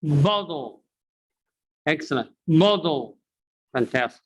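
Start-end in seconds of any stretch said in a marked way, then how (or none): 0.0-0.8 bottle said as boddle; American flap t. Shown as a demonstration. Teacher asking learners to repeat, d sound in bottle. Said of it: "you have to repeat after me". 2.5-3.2 bottle said as boddle; American flap t. Shown as a demonstration. Teacher drilling learners, d sound in bottle. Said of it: "you have to repeat after me".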